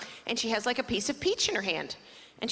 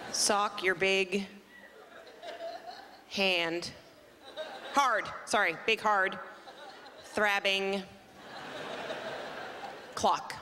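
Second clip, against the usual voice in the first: laughing; 3 semitones lower, 3 dB quieter, much slower than usual. Acted. Reading a text, laughing through it.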